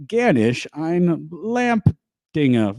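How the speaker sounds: halting attempt at German; mildly clumsy learner's German with an English accent; bad German. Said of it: "super bad German".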